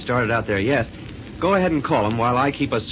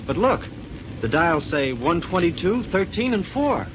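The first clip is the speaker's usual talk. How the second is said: excited; 6 semitones higher than usual. Acted. Alarm at dial readings.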